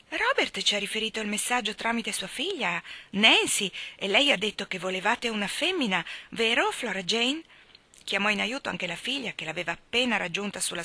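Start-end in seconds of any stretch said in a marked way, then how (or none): 0.1-7.4 a lady talking fast and high to justify herself, appealing at the end; flustered hostess. Acted. Mrs Spencer appealing to her daughter, lightly flustered. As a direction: call on Flora Jane for backup.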